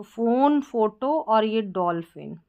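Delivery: फ़ोन, फोटो, डॉल्फिन with an f sound; ph read as फ. Shown as a demonstration. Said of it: "पीएच है फ".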